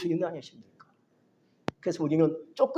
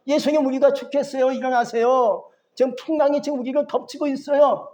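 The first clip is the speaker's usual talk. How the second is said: high, louder cry for help, acted by a preacher; urgent, raised-pitch storm alarm, dramatized; frightened plea; 5 semitones higher, 4 dB louder than usual. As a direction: act out alarmed disciples waking their master. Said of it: "제자들이 겁내서".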